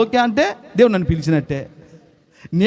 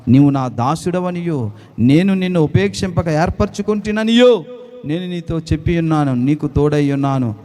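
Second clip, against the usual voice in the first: declaiming the Bible passage with rising conviction; solemn scripture reading. Acted. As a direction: read it as God's promise, measured. Reads Isaiah passage aloud.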